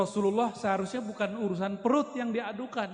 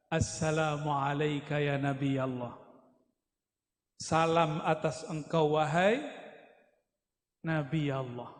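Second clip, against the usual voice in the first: low, measured salutation to the Prophet; reverent greeting; 5 semitones lower than usual. Acted. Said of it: "Pohonnya ndiluk dan semuanya mengatakan". (salam khidmat, rendah dan perlahan)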